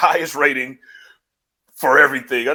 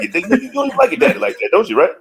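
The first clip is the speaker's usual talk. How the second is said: much higher, coaxing mock voice; teasing put-on voice; 8 semitones higher, faster than usual. Host playing a smooth talker luring a wrestler, high-pitched. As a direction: coax him like a sleazy recruiter. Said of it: "you say".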